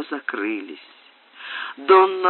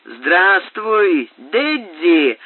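called out, a touch louder and higher; a lightly raised tavern shout; shouting a greeting; 4 semitones higher, 4 dB louder, much slower than usual. Acted. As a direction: hail him across the room. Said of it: "закричал Снелл".

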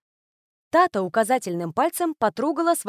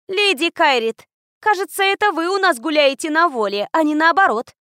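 loud, high, mocking little girl; snide little girl jab; sarcastic; 7 semitones higher, 5 dB louder than usual. A narrator's reading. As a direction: drip with sarcasm, pushing it out. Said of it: "язвительно отозвалась мелкая".

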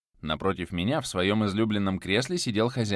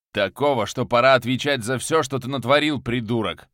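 louder, poisonous sneer; venomous; 3 semitones higher, 6 dB louder than usual. Acted. Viktor spits venom at his prisoner, louder. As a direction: drip venom on every word. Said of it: "Яда в голосе Виктора было столько".

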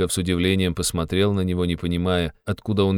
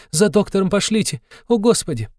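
frantic urging; 13 semitones higher than usual. A narrator's reading. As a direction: rush everyone along, frantic. Sonya panics for doctor. (высоко, громко, суетливо)

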